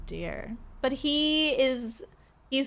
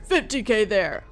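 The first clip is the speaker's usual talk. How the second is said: stern father; 4 dB louder than usual. Acted. Stern letter.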